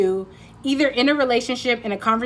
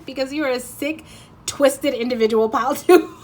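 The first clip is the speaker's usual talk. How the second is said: playful teasing; 4 semitones higher, 5 dB louder than usual. Acted. Playfully insulting the listener.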